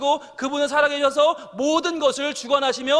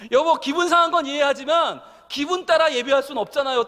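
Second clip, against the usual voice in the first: firmer retold wife; 3 semitones higher than usual. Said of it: "딱 그러는데요".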